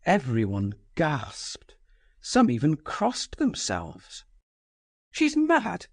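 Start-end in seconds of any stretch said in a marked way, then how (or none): 5.1-5.9 cry. Acted. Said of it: "was the cry".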